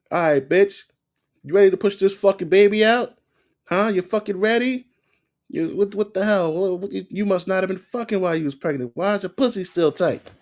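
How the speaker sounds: high, loud hammed-up yelling doctor; mock crude doctor. Creator mocking a doctor yelling at a woman in labour, hammed-up high loud shout. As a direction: bark it like a crude delivery-room doctor. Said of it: "and the doctor's like".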